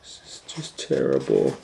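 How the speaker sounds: whispered, dismayed. A narrator's reading. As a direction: breathe it in dismay. Kate whispers despair.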